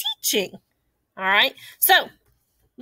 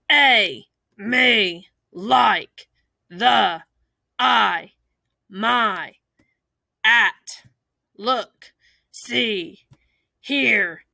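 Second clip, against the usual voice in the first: hungry dinosaur; 2 semitones lower, much slower than usual. Shown as a demonstration. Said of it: "read it like we're a big, hungry dinosaur".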